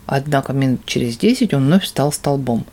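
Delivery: plain reading voice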